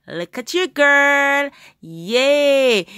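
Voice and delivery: rising to a loud, high cheer; excited cheer. Real, not acted. Mother cheering her swimming son from the boat, loud and excited.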